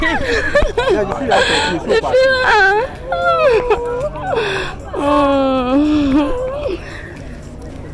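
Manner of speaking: high shrieking cry of joy; joyful scream. Real, not acted. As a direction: shriek with delight at the reunion. Screams at reunion.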